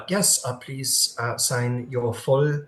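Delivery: put-on a slow greeter's line that drifts into a French accent; the wrong voice: a light French accent, drawn out; slipping French accent. Game master voicing the greeter to Cross, light French accent. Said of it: "wrong accent".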